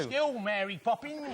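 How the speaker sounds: slow mock Cockney Dick Van Dyke accent. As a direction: do Dick Van Dyke's Cockney from Mary Poppins. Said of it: "in a Dick Van Dyke accent".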